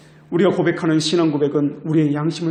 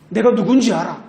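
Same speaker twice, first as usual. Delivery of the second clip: louder, higher, imitating an official pulling rank; mock indignant yelling; 4 semitones higher, 5 dB louder than usual. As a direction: act out a self-important official raising his voice. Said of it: "큰 소리를 칩니다". (큰소리치는 공직자 흉내)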